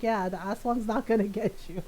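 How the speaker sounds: even, understated comforting answer; mild reassurance. Retold or imitated. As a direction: settle the worry matter-of-factly. Oldest sister reassures scared brother.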